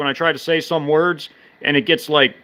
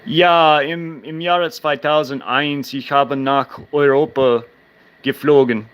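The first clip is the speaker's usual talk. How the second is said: speaking German; slower than usual. Shown as a demonstration. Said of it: "Yeah, I flew to Europe".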